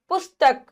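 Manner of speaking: पुस्तक with a short, quick u; short quick vowel. Shown as a demonstration. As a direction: say पुस्तक without lingering on the u. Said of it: "जल्दी बोल जाते हैं". (पुस्तक में उ छोटा, जल्दी बोलें)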